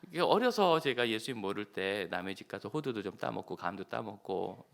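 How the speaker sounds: ordinary talk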